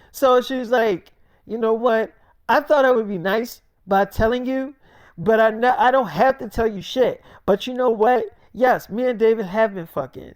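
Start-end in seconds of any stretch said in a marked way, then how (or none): 1.4-10.3 higher, acted defiance; defiant confession. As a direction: admit it to spite your friend.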